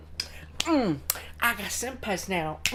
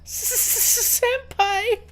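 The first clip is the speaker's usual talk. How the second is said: overacted anime dub; 11 semitones higher, 5 dB louder than usual. Anime fangirl squeal at senpai.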